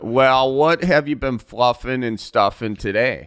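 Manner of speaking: lightly put-on folksy broadcaster; easygoing Midwest radio interviewer; Northwoods radio host. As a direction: chat like a small-town radio host. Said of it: "I'm the host of Northwoods Radio".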